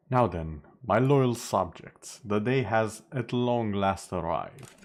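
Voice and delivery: slow, stately king address; warm regal boom. Acted. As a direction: proclaim it grandly to your subjects. Streamer greets chat as a king.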